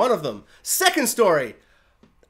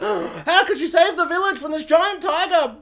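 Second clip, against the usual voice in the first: mock villager amazement; 9 semitones higher than usual.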